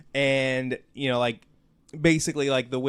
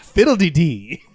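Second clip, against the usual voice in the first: laughing, louder Southern belle exclamation; 3 semitones higher, 10 dB louder than usual. Pretend. Answering friends' joke, laughing louder Southern belle. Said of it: "Southern belle".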